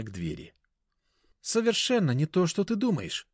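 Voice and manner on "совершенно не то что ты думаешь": Anya's voice raised, high; rather loud. A narrator's reading. Anya caught with someone, rather loud denial. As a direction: rather loudly denying it all. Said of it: "довольно громко сказал знакомый женский голос".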